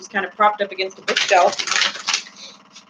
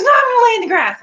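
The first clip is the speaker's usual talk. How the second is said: high, loud, fast retort; imitated protesting friend; 11 semitones higher, 5 dB louder, much faster than usual. Friend insists on lying in grass, high imitated protest. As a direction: fire back in a raised mock voice.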